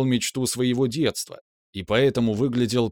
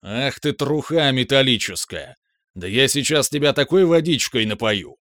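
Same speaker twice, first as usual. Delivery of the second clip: angry shout, a bit louder; 2 semitones higher, 4 dB louder than usual. Acted. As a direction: yell it at him in a rage. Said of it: "Выкрикнул гигант".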